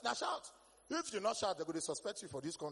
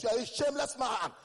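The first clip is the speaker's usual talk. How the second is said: mock scolding; 4 semitones higher, 7 dB louder than usual. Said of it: "do me like this".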